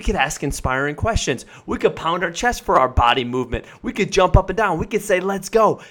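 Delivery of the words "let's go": fired up. Shown as a demonstration. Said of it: "fire ourselves up".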